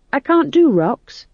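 high, slow fretful plea; worried young witch voice; anxious young witch. Acted. Magrat speaks.

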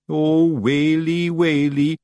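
high, drawn-out Scots wail; hammed-up terrified lament, rising; panicked cry. A narrator's reading. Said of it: "cried Daft Woolly".

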